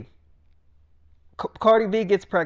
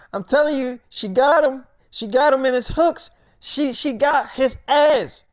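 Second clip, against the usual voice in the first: mock angry rant; 5 semitones higher than usual. A rapper ranting on Instagram Live.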